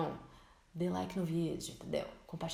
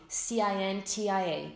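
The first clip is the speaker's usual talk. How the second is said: letters grouped in little clusters; slow grouped spelling; slower than usual. Shown as a demonstration. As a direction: spell it out in chunks, slowly. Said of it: "Então, meu nome".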